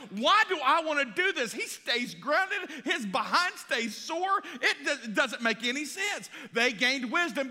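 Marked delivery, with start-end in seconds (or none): 0.1-6.3 mock sisters. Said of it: "they were like".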